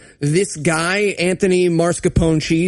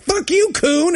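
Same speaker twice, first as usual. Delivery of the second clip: high mock sneer; 11 semitones higher, slower than usual. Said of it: "she's like".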